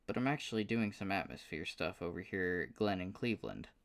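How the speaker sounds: lightly voiced southern drawl; an easy southern drawl, a bit rueful. The speaker explaining he is stuck in Cleveland, light southern drawl. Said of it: "with a surprisingly thick southern drawl".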